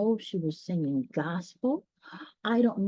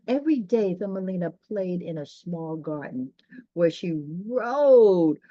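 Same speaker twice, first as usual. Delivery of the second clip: storybook narration; 3 dB louder than usual. A narrator's reading. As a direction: read it like a bedtime picture book. Reads storybook narration aloud.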